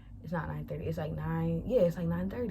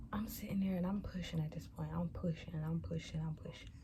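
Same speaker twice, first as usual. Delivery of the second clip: fading to soft; 6 dB quieter than usual. Retold or imitated. Retelling pushing, fading voice.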